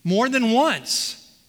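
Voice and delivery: slow, deliberate, each word weighted; slow emphasis. Shown as a demonstration. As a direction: lean on it slowly to stress it. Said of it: "Do you see the, the emphasis there?".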